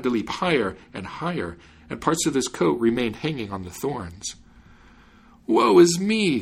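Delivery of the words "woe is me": high, louder wail of woe; crying out. A narrator's reading. Dancing man laments to the fiddler, crying out. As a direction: cry out in lament, pitch jumping up. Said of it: "cried the Jew".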